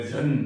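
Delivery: झन with a voiced, buzzing first sound; pronunciation demonstration. Shown as a demonstration. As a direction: say झन alone with a voiced "zh". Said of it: "झन भी होता है".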